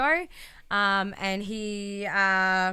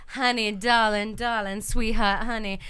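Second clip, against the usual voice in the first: mock sugary Lacey; 4 dB louder, slower than usual. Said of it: "talks her basic boring shit like".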